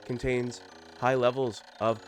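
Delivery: stranded captain's log, low and subdued; Captain Olimar. Acted. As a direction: read it as a grave, dramatic ship's log. Reads Captain Olimar's log in character.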